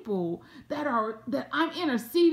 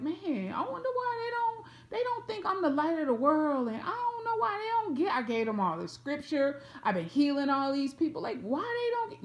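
Jesus wondering aloud; 4 semitones higher than usual. Acted. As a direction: puzzle it over in a high, hushed voice. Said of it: "He's not sitting here thinking like".

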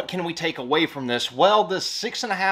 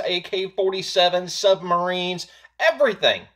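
ordinary talk, nothing marked

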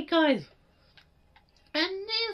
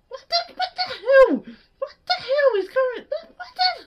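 louder, higher shout broken by laughter; laughing yell; 5 semitones higher, 7 dB louder than usual. Real, not acted. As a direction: yell it out while cracking up. Attacked, shouting while laughing.

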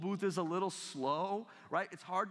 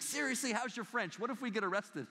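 higher, urgent whisper-free plea of a nervous wife; worried wife; 5 semitones higher than usual. Retold or imitated. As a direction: hiss it up high like a wife afraid of trouble. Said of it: "she's just kicking me like".

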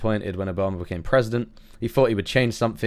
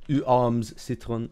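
clumsy attempt at a French accent; halting, unsure French pronunciation; bad French accent; much slower than usual. Shown as a demonstration. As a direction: slowly sound out French with an English accent. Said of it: "cringe at my terrible accent".

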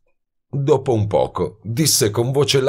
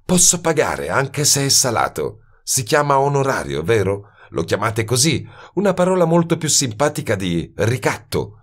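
higher, dry sardonic woman's voice; sardonic young woman; 6 semitones higher than usual. A narrator's reading. Woman taunts detective about blackmail, lightly voiced. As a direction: needle him about his fee.

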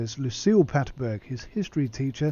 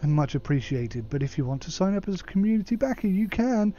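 higher, put-on wheedling client voice; emailing client; 5 semitones higher than usual. Client asking the technician to sign up, higher voice. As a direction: nudge them politely, pitched up.

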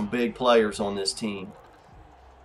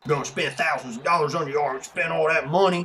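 mock sour grumbling; salty griping; 2 semitones higher than usual. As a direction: imitate a jealous sore loser. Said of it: "he's all salty right now".

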